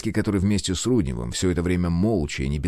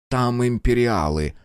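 unctuous; 4 semitones higher, slower than usual. Acted. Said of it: "елейно произнёс Герр Киршнер".

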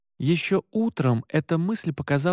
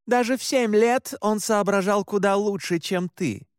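cutting jab; 7 semitones higher than usual. Acted. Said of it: "бросила Оливет".

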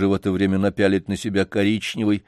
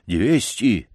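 eager janitor; 5 semitones higher, 4 dB louder than usual. Acted. Janitor voiced in story.

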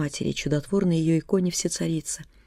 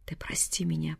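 hoarse rasp; 8 dB quieter than usual. A narrator's reading. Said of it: "прохрипела мать".

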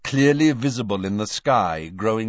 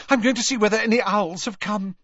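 fast, high, eager; hurried; 14 semitones higher, 4 dB louder, faster than usual. Acted. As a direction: rush the words out. Hermione voiced in audiobook.

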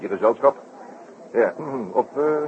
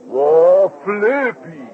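surprised cry; 8 semitones higher, 7 dB louder, much slower than usual. Acted. Sudden recognition of old friend.

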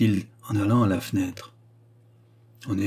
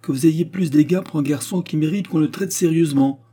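higher, heated scolding; angry outburst; 6 semitones higher, 4 dB louder than usual. A narrator's reading. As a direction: scold with a touch of temper. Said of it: "s'écria madame Clotilde avec emportement". (emportement, ton de réprimande)

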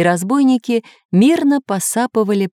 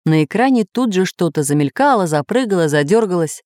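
ordinary delivery, nothing marked

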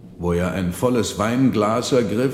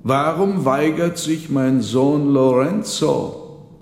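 demanding father; 5 semitones higher, 5 dB louder than usual. Acted. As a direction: call out your son for refusing. Marchese questions son Lorenzo.

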